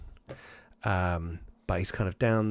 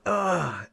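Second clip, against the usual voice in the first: higher-pitched grunt of impact; pained grunt; 8 semitones higher than usual. Acted. Running father falls on his face, pained grunt. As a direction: grunt as if hitting the ground. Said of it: "you hear him like".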